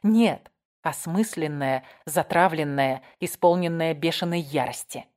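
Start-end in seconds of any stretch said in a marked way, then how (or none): none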